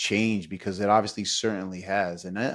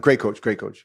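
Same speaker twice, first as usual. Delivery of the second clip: eager reply; 5 dB louder than usual. Retold or imitated. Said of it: "I said, uh, immediately, I didn't hesitate".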